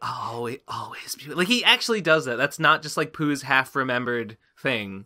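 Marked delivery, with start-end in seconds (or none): 0.0-1.3 imitated whisper, much quieter. Describing a film scene where he leans close to Pooh, imitating his whisper. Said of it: "whispers in".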